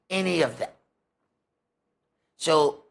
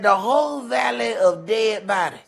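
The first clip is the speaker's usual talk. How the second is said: shouted scripture quote; 5 semitones higher than usual. Retold or imitated. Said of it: "he said".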